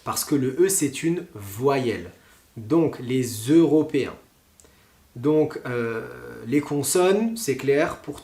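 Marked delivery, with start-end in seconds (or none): 3.0-4.1 "les Européens" joined by a Z sound; teaching liaison, "lé-zEuropéens". Shown as a demonstration. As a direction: carry the S of "les" as Z onto "Européens". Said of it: "la lire avec le E des Européens".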